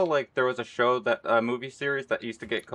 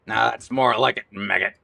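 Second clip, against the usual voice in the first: louder gruff sergeant voice; soldier impression; 5 dB louder than usual. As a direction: growl it like a pleased sergeant. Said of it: "Is that a good soldier impression".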